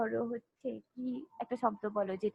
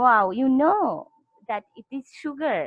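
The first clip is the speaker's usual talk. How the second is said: praising teacher; 4 dB louder, much slower than usual. Retold or imitated. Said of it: "তখন আমি বললাম".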